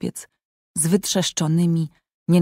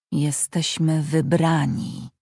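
slow, proud correction; dignified correction; 4 dB quieter, slower than usual. Acted. Kolgrim corrects Tarjaj, slow dignified pride. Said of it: "sprostował Kolgrim z godnością".

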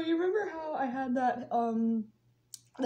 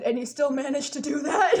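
louder mock-incredulous question cracking into laughter; laughing disbelief; 6 dB louder than usual. Nurse questioning patient, retold with laughing disbelief. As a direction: retell disbelief, starting to lose it.

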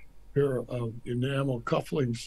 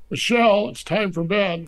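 much higher and louder, calling out a name across a room; 7 semitones higher, 7 dB louder than usual. Retold or imitated. The first lady calling her husband off to bed: high, loud call. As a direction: call her over from afar.

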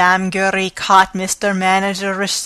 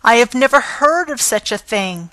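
raised indignant cry; shouting; 4 semitones higher than usual. Acted. Concierge to managers, shouting her innocence. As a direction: throw it up high and hot. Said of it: "She shouted".

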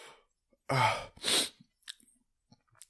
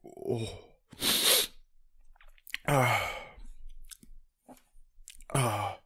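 after eating wasabi; 2 semitones lower, much slower than usual. Real, not acted. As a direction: yelp at the burn. Burn hits.

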